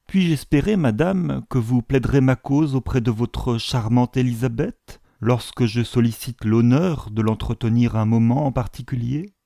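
lightly voiced ceremonious suitor; a hint of courteous formality, lifted at the opening. Suitor asking a mother for a private audience, lightly ceremonious.

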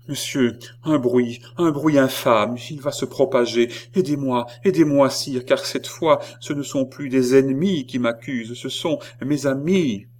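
high, impassioned plea; urgent appeal. A narrator's reading. Queen pleading with the king. (supplication pressante, voix haute)

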